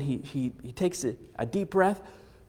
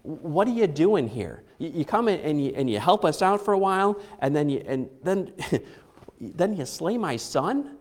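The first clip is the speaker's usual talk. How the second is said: derisive; 4 semitones higher than usual. Retold or imitated. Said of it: "cuttingly sarcastic in her tone".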